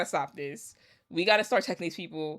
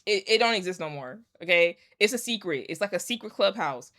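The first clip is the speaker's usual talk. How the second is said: ordinary talk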